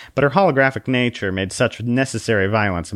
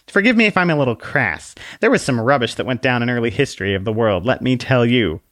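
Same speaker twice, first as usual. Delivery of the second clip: prim little book voice; 3 semitones higher than usual. Acted. Book explains her crassness.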